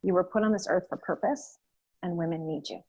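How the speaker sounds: soft, calm reassuring voice; steady and clear, gently. Retold or imitated. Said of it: "she was really calm and clear".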